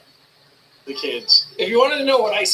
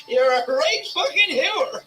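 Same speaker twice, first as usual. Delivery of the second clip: put-on rural Irish farmer accent; 8 semitones higher than usual. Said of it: "he sounds exactly like I did when I was a kid".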